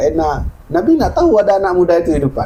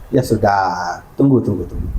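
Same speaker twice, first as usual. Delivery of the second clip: low, soothing hold-on; patient, lowered reassurance; calming prophet; 8 semitones lower than usual. Acted. Prophet calming the weeping youth.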